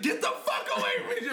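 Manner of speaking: fast, high-pitched mock outrage; retold angry rejection. Storyteller quoting girlfriend pushing him off, fast high mock anger. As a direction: rattle it off like a fed-up girlfriend.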